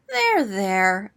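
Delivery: kind comfort. Acted. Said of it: "Owl patted him kindly".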